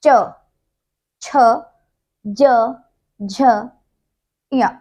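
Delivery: च, छ, ज, झ, या each said alone with pauses; teacher modelling the च row; reciting consonants. Shown as a demonstration. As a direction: sound out the palatal row slowly. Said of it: "इसका उच्चारण करिए".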